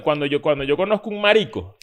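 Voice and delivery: talking through real laughter; laughing. Real, not acted. Friend trying to tell his experience to friends, laughing. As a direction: fight the giggles while getting the words out. Cracking up while trying to speak.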